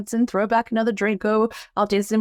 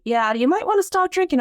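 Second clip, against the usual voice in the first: little inner voice; 9 semitones higher than usual. Retold or imitated. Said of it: "the voice says".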